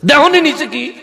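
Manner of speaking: high, taunting call of hell's angel; angel's threatening call. Acted. Hell's angel warning the man on the bridge, high threatening call. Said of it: "জাহান্নামের ফেরেশতা তখন".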